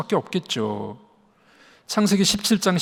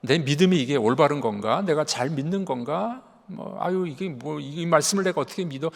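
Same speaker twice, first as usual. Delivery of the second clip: voiced doubt; 5 dB quieter than usual. Preacher voices a believer's doubts to the congregation, quietly doubting. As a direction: softly muse like a wavering believer. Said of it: "의심이 오잖아요".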